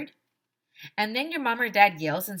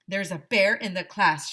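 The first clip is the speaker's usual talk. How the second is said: shout; 5 dB louder than usual. Acted. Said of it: "shouted Ryan".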